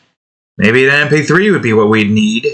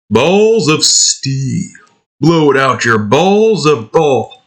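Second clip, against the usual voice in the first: Duke impression; 3 semitones higher, slower than usual. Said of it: "Trying to do that".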